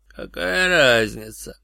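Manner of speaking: slow, calmed-down voice; suddenly calm. A narrator's reading. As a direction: let the rage drop, slow and calm. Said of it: "внезапно успокоившись".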